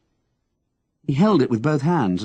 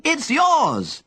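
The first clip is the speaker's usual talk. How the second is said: shout. Acted. Henry calling down to the young man, shouting. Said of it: "Henry shouted at him".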